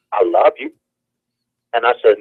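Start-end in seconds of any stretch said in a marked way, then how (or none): 0.1-0.7 a mother's southern drawl, a little higher; a light southern drawl for mama. Retold or imitated. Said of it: "in my mother's southern drawl".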